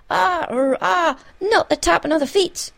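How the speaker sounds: stammer, then cry out in alarm; hammed-up panic; panicked wailing. A narrator's reading. Feagles panic at the dreaded tapping.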